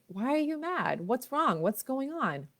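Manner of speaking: lightly acted, pressing parent questions; imitated questioning parent. Parent questioning an upset child, voiced.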